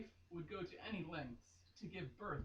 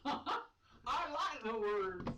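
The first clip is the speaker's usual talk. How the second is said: laughing; 5 semitones higher, 7 dB louder, much slower than usual. Real, not acted. Laughing slow reply.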